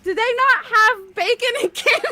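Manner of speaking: put-on high, loud incredulous child's question; concerned, upset kid. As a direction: play up a kid's alarm. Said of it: "very concerned and very upset".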